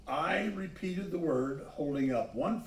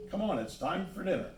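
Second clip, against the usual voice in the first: hurried call; 5 semitones higher, faster than usual. Acted. Brother calling them home.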